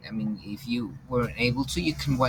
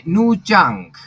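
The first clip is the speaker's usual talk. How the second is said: calling out a name; 7 semitones higher, 11 dB louder than usual. Real, not acted. Teacher calls on a student.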